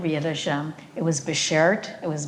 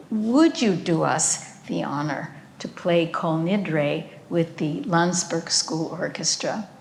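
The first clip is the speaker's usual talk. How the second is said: imitating German accent; 2 semitones higher than usual. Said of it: "strong German accent".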